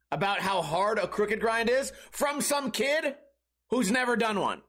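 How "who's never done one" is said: normal talking voice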